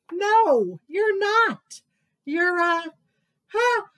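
high, loud scoffing; high mocking voice. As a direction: scoff loudly at the mouse. Animal mocks mouse.

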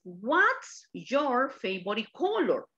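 slow, clear English model; slow model question. Shown as a demonstration. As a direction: spell the question out slowly for learners. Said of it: "La pregunta es". (pregunta lenta y clara)

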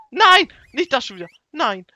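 loud, high cries of protest; alarmed shouting. Real, not acted. Player sees the mishap happening again, alarmed shouting. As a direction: shout it in sudden dismay.

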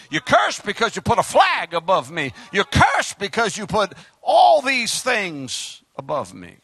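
emphatic, rhythmic sermon delivery; preaching. Acted. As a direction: drive each repeated charge home like a preacher. Preaches a repeated charge.

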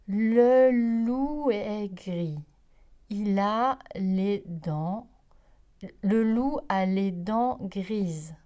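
very slow, loud, word-by-word beginner's reading; a wolf slowly reading aloud to the farm animals, word by word; halting reading. Acted. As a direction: spell it out like a first-grader sounding out words. Wolf reads his first primer.

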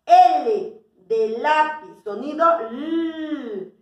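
teacher drawing out the l; letter sound demo. Shown as a demonstration. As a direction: draw out the "l" for kids.

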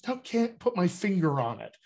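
a hint of a hesitant, unconvinced audience member; doubtful listener. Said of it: "people will go".

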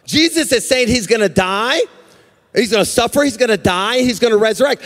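driving, repetitive sermon cadence; impassioned preaching. Real, not acted. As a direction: hammer each repeated phrase, building. Preaches at full force.

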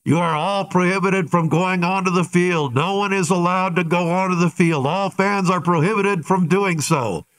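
a touch of a stadium PA warning; PA announcer. Retold or imitated. PA guy warning the fans off the field, mild announcer voice. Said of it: "what did the P A guy say".

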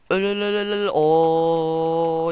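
loud, high chant of "die" while fighting; yelling kill. Real, not acted. Gamer yells at his in-game enemy to die, loud and high. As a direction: hammer out each "öl" at the screen.

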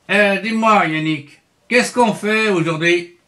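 lightly voiced puppet bear asking; hint of a cartoon bear voice; Syllabe the bear. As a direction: ask as a curious little bear puppet. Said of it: "je suis l'ours Syllabe".

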